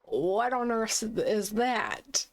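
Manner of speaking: slow, puzzled imitation of a viewer; mock the baffled viewer. Vlogger voicing a confused viewer asking what it is, slow and puzzled. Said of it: "if you're wondering".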